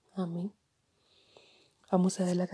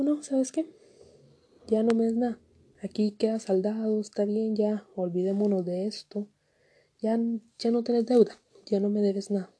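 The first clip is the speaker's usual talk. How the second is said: king to his servant, forgiving him with a raised, generous voice; forgiving lord; 2 semitones higher, 4 dB louder than usual. Acted. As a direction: play the merciful master waving the debt away.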